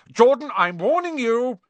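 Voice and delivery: high, loud stern teacher; stern warning. Acted. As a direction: warn him sharply. Teacher warns commentator.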